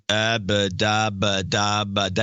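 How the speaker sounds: monotone mumbo-jumbo of a dull newsman; mock droning babble; boring reporter drone. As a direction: imitate a droning reporter with nonsense syllables. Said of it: "you have these boring guys".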